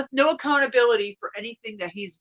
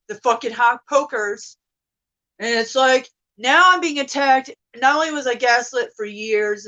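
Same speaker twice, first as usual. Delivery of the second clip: climbing higher and louder into outrage; rising outrage; 4 semitones higher, 6 dB louder than usual. Real, not acted. Ranting to viewers about being attacked, rising angry yell. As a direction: let the fury build word by word.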